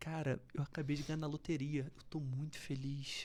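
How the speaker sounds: flat, joyless monotone with no lift. Showing how happy words can sound unhappy: flat, joyless tone. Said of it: "Só que não parece".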